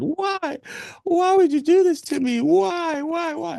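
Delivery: very high mock wail, pleading; hammed-up falsetto wail of a distraught wife; shrill mock cry of a woman yelling at her husband; imitating screaming woman. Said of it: "she's still screaming".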